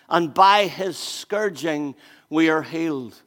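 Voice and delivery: measured scripture read with long pauses; solemn scripture reading. Acted. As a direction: lay each phrase down heavily. Reads Isaiah aloud slowly.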